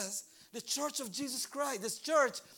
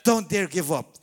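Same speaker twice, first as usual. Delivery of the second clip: firm, loud call to hold on; loud preacher's cry; loud exhortation; 5 semitones lower, 11 dB louder than usual. Acted. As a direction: shout it to the crowd.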